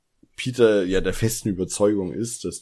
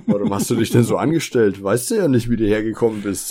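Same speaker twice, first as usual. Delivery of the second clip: loud retold Justus; 6 dB louder than usual. Justus quoted in a retelling.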